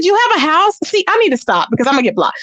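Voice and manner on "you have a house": high, rising question of disbelief; mock incredulous. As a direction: replay your scornful surprise. Retold disbelief at her claim.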